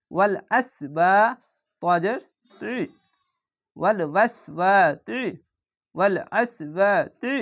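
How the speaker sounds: ওয়াল আসবাতি slowly, তি thick; heavy ti recitation. Shown as a demonstration. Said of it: "তি একটু মোটা করে পড়বেন". (মোটা তি দিয়ে ওয়াল আসবাতি)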